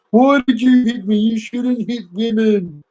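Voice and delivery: very high wailing mimicry of a woman; mock crying woman. Man imitates a woman crying on the ground after a punch, mock crying. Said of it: "you'd be crying on the ground going".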